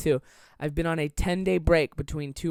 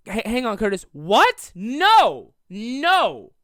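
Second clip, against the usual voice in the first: mock flustered denial; 4 semitones higher, 8 dB louder, much slower than usual. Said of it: "I literally was like".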